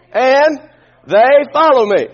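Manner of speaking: loud leading line with "follow" stressed. Shown as a demonstration. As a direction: lift the line for the congregation. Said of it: "Let's say that".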